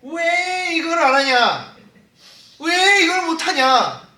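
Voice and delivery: loud, high, drawn-out nagging; hammed-up scolding wail; imitated annoyed wife. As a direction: stretch out each exasperated complaint. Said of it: "여사관이 가끔씩 이럴 때 막 짜증내요".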